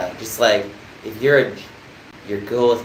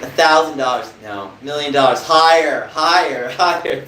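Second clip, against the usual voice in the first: louder and higher each time; building excited bidding; 4 semitones higher, 5 dB louder than usual. Pretend. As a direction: push the price up, getting louder. Mock auction bidding up.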